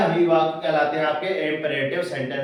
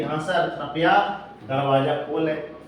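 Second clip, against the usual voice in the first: slow reading; 3 semitones lower, slower than usual. Shown as a demonstration. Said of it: "Hindi भी लिख दिए हैं".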